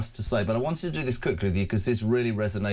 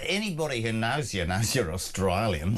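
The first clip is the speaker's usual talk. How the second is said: mock Australian accent. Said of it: "Did you like what I did there?".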